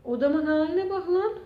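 exasperated laugh into the words; real nervous angry laughter; laughing from anger. Real, not acted. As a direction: laugh through it out of sheer frustration. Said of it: "Sinirden gülüyorum".

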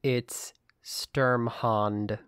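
Sturmhond said as STURM-hond, German u; Sturmhond, STURM-hond, not hound; correct pronunciation. Shown as a demonstration. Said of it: "It's not just the way you said it".

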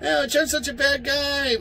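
high, mocking sing-song; mocking whiny voice. Ranter mocking Trump critics in a whiny voice. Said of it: "a bunch of people going".

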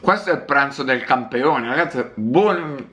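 talking through a mouthful of food; chewing while talking; mouth full. Real, not acted. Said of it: "sto parlando con la bocca piena".

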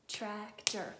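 "Tractor" loud, two separate heavy beats; pounded-out syllables. Shown as a demonstration. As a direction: pound out TRAC-TOR in "Tractor". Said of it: "Let's pound it".

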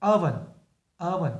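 oven repeated clearly for students; teacher repeats oven for the class to copy; model word. Shown as a demonstration. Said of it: "Các bạn để ý này".

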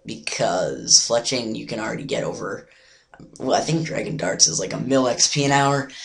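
hoarse, nearly lost voice. Real, not acted. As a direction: talk through a lost voice. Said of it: "I just kinda, like, lost my voice".

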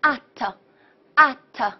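"at" said slowly, as a model word; pronunciation demo. Shown as a demonstration. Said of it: "直接发音叫做".

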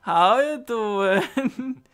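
slow sleazy pickup line; drawled lightly flirty greeting; flirty fuckboy voice. Retold or imitated. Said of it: "He's like a fuckboy".

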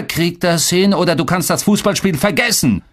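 heated, stern threat; cutting him off. A narrator's reading. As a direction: cut in hard with an ultimatum. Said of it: "fuhr mir mein Vater über den Mund".

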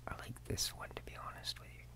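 very soft, near-whispered confession; barely voiced, private admission; hushed aside. Real, not acted. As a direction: confide it under your breath. Hushed confiding aside while browsing farms.

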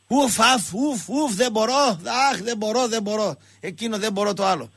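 huffing, sighing put-on complaint; overwhelmed, acted-out moaning; mock whining. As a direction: whine helplessly between puffs. Acting out Niki's constant complaining.

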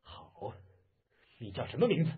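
restrained anger demanding an answer; mildly furious challenge; angry. Acted. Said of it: "杨铁心怒道".

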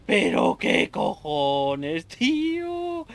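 slow stretched baffled outcry; drawn-out disbelief. Real, not acted. Gamer baffled by the boss's attack, slow stunned outcry.

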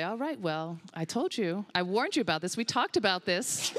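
lightly scolding a dog; mild admonishing. Retold or imitated. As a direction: chide the dog like a let-down owner. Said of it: "kind of admonish them".

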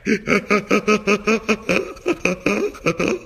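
Eddie Murphy style wheezing cackle; low breathy cackle; signature cackle. Acted. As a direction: break into that trademark hee-hee cackle. Laugh after soul glow pun.

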